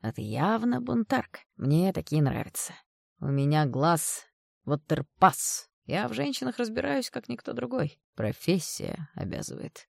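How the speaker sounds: put-on a creep sweet-talking the girl; sleazy older man. Stanislav's lines voiced by the reader.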